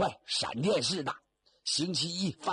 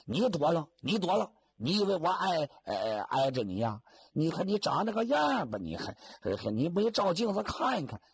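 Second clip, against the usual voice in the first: quarrelling; 2 semitones higher than usual. Acted. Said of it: "俩人就在这坑里头吵起来了".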